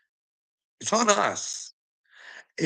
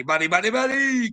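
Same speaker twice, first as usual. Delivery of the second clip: higher, mocking buddy, buddy; taunting; 8 semitones higher than usual. Real, not acted. Taunting the commenter higher, mocking repeats. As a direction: needle him with it.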